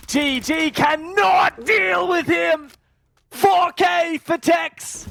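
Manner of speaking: excited. Real, not acted. Caster cheers a streak.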